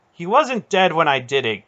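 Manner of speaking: high, loud angry shout. A narrator's reading. Garion shouting back at his aunt, angry shout. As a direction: shout back in self-defense. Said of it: "Garion shouted at her".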